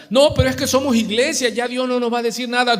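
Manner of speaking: high-pitched protest in a church member's voice; objecting church member. Acted. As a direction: protest as if exempt from correction. (feligrés que protesta, voz aguda)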